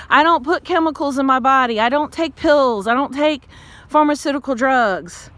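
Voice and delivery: ranting. Real, not acted. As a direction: push back hard, fed up. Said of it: "that's my rant".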